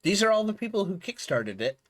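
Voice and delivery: talking with food in mouth; words around a bite of food; chewing while talking. Real, not acted. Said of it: "Excuse me, I'm chewing some food".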